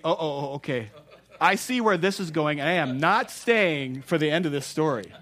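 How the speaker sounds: half-joking realization as they back off; wise old men. Retold or imitated.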